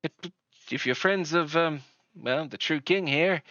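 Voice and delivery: put-on in-character local with a Southern accent; hint of a Southern accent. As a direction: play a welcoming settler with a light Southern accent. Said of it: "That's a, that's a convincing Southern accent".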